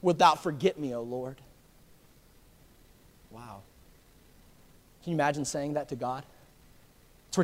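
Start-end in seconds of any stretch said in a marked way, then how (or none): 0.0-1.4 crying out to God. Retold or imitated. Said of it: "He cries out".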